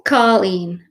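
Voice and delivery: "Colleen" with an open aw, like call-een; open AW pronunciation. Shown as a demonstration. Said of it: "So hers is Colleen".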